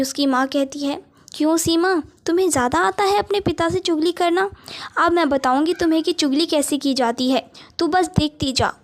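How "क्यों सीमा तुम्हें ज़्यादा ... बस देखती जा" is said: taunting mother. Acted. Mother threatens Seema.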